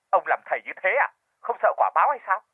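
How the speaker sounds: fast, mildly voiced outrage; screaming reproach. A narrator's reading. Widow on the phone reproaches shaman, fast mock outrage. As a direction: fire off the accusation quickly. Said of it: "Người phụ nữ bên đầu dây bên kia gào thét".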